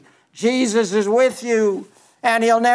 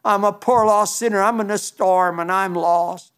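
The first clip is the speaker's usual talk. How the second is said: sample prayer. Pretend. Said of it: "you know him personally by saying".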